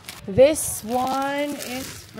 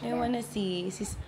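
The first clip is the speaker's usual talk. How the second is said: hushed; 6 dB quieter than usual. Real, not acted. Baby asleep nearby.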